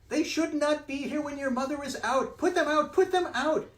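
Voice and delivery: very high, loud frightened pleading; scared fish. Acted. Scared fish pleading with the children, high and loud. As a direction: beg them to put it out. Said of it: "he's really scared".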